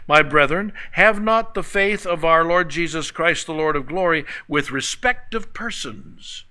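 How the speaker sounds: scripture read out with a lift. Acted. Preacher reading the verse to the congregation, solemn. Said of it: "So he says".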